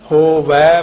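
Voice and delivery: ਹੋਵੈ loud, with open -vai; correct -ai ending. Shown as a demonstration. Teacher correcting the reading, ਹੋਵੈ loud on open -vai. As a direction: push the -ai of ਹੋਵੈ. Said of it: "ਫੇਰ ਦਲਾਈਆਂ".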